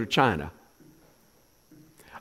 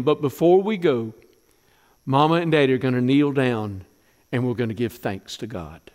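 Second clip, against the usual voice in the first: mother's farewell; 5 semitones lower than usual. Acted. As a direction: hold back the tears as you let him go. Hannah voiced to son.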